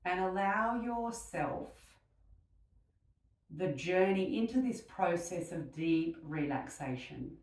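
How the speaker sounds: unhurried meditation voice with long pauses; guided meditation. Real, not acted. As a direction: gently guide them into stillness, leaving space between phrases.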